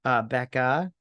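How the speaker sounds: high, incredulous heckle at the screen; mock exasperation. Viewer to Connie about juice in a mug, mock exasperated. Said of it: "I'm all like".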